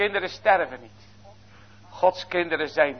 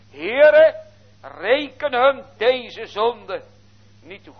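high, loud, very slow plea; a pleading shout, not a murmur; great loud cry; 5 semitones higher, 4 dB louder, slower than usual. Acted. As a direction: call out to God so everyone hears. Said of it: "riep het met een grote stem".

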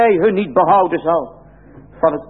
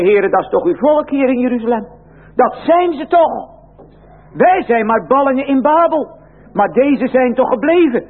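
pleading prophet; 6 semitones higher than usual. Acted. Preacher voices Ezekiel pleading with God.

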